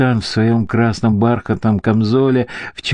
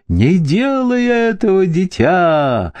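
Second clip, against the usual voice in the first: much higher, piercing shriek of warning; frantic scream; 9 semitones higher than usual. A narrator's reading. Mrs Heist shrieking at Rose to stop, in a frantic scream. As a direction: shriek at the girl to stop her. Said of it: "истошно завопила миссис Хейтс".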